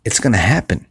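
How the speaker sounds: hushed, certain whisper; whispered promise. Real, not acted. To the listener, a whispered promise that success will come. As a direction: whisper it like a secret you know is true. Motivational pep talk.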